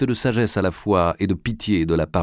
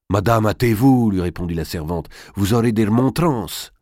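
louder, anxious hurrying-along; urgent warning; 4 dB louder than usual. Acted. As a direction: urge your mistress to hurry. Servant urges mistress to hurry.

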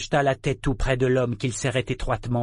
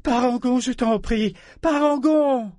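desperate, high-pitched pleading; Ambre; 12 semitones higher, 5 dB louder than usual. A narrator's reading. Woman begging Parangon to stop, desperate supplication. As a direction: beg him urgently, voice raised. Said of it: "les supplications d'Ambre".

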